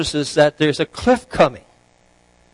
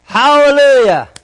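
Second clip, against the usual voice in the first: high, loud jubilant cry; excited shout; 10 semitones higher, 9 dB louder than usual. Acted. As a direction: shout it out in sheer relief and excitement. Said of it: "the man in his excitement says".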